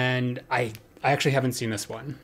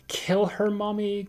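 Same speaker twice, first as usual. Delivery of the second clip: put-on high child voice; 9 semitones higher than usual. Friday the 13th movie voice.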